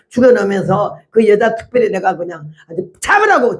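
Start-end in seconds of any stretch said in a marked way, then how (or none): 3.0-3.6 1 mock shout. Retold yelling at the woman.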